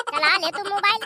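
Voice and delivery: high mocking laugh into the scolding; sarcastic laughing jab. Sister-in-law mocks the bahu glued to her phone, laughing scorn.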